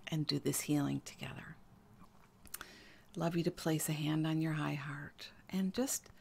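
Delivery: soft, gentle healing-session voice; soft and intimate, with sighing breaths; guided meditation. Real, not acted. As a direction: ease the listener inward with a hushed voice.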